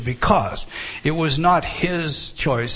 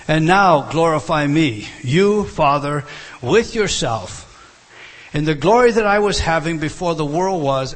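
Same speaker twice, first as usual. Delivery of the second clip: fervent scripture reading. Acted. Reading Jesus' prayer emphatically.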